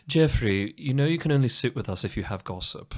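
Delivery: lightly mimicked posh British colleague; a hint of posh British haughtiness. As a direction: put on a bit of a posh British accent. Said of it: "He was very posh and British".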